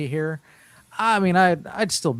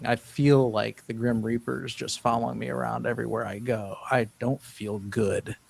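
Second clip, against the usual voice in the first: put-on gloomy old complainer. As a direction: play a worn-out man who feels death coming. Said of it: "That's the way I used to talk".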